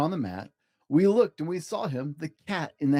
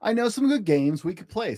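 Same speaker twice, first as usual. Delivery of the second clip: higher, bouncy cat voice; playful cat; 5 semitones higher than usual. Acted. Cat to the bored children, higher and playful. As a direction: sell the games like a show-off cat.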